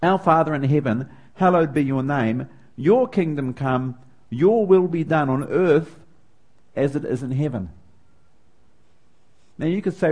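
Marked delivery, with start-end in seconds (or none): 0.0-7.7 measured liturgical reading; reciting scripture. Shown as a demonstration. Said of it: "part of the Lord's Prayer".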